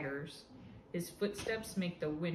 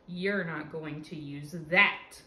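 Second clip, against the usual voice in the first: growl; 3 semitones lower, 4 dB louder, slower than usual. Acted. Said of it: "he growls".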